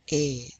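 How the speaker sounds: A said as a closed "ay"; acute accent sound. Shown as a demonstration. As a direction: say A like the vowel in "way". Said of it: "is pronounced A".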